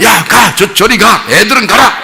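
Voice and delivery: high mock shout; hammed-up bossy yelling; bossy shooing. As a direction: imitate a self-important disciple shouting kids away. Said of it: "막 나댈 때는 어땠어요?".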